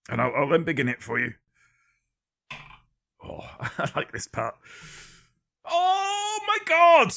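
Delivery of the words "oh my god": a sudden, very high, slow squeal of mock shock; stretched-out high mock squeal; shrieked surprise. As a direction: gasp it out way up high like you can't believe it.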